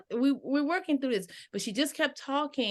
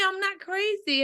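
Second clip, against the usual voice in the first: imitating a panicked plea; 10 semitones higher than usual. Coworker pleads, panicked.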